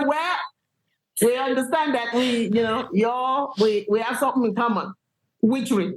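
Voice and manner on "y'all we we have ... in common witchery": normal talking voice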